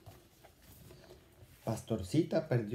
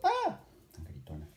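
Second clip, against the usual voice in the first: mild narrated cry; 6 semitones lower than usual. A narrator's reading. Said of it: "Otro grito, una tarde soltó".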